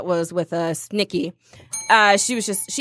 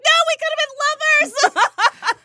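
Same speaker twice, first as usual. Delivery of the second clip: high, slow, laughing mock lament; mock heartbroken; 3 dB louder than usual. To the Parisian man walking away, mock heartbroken and laughing. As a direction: play a hammed-up jilted lover. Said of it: "I'm like".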